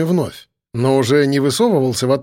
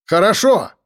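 raised, firm call; shout; 5 semitones higher than usual. A narrator's reading. Narrator shouting agreement to the gunman. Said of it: "крикнул я".

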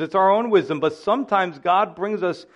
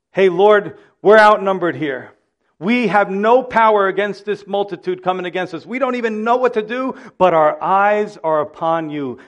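urgent prayer; 3 semitones higher, 5 dB louder than usual. Pretend. Pastor voices Jehoshaphat's prayer, loud.

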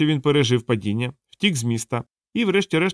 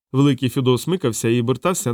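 ordinary delivery, nothing marked

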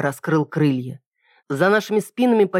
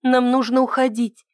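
anxious higher voice, stress on «нам»; urgent and uneasy, «нам» stressed first; worried; 8 semitones higher than usual. A narrator's reading. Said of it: "Ида встревоженно оглянулась".

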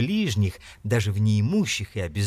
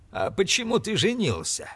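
scornful; 10 semitones higher than usual. A narrator's reading. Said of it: "спросил Скрудж".

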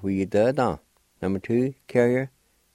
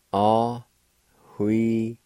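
slow demonstration; much slower than usual. Shown as a demonstration. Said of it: "pronounced like this".

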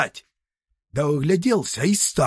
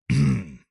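throat clear; 10 semitones lower than usual. Acted. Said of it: "сказал дед и сам перепугался".

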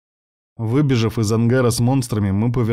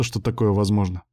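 usual speaking voice

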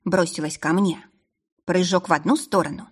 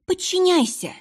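much higher, shrieked repeat; shrieking command; 12 semitones higher than usual. Acted. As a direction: screech the order up high. Demon repeating the command, escalating.

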